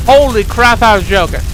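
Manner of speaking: real surprise at the reveal; surprised. Real, not acted. Player finding the joke came true, surprised.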